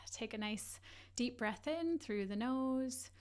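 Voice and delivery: measured meditation guide, long pauses; guided meditation. Acted. Leads a guided breathing meditation.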